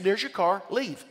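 high, loud telling-off, retold; mock stern goodbye; retold firm dismissal. Retold dismissal of pushy man.

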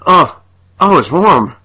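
imitated toilet-stall groans; comic strained moan; mock moaning. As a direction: moan it out in bursts, rising. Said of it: "they're, like, moaning noises".

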